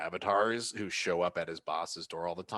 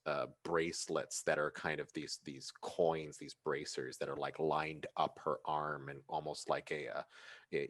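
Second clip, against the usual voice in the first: game master narration. Acted. Game master describes the figure.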